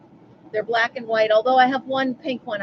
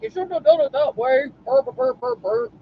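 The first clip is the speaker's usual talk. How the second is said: high, garbled mock grumbling; nagging brother; 6 semitones higher than usual. Woman mimicking how her brother would scold her, mock nagging. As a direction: imitate a brother's scolding dissolving into gibberish. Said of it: "That's how he sounds".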